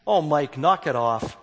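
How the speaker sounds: mock firing back at Mike; fired back. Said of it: "she fired back".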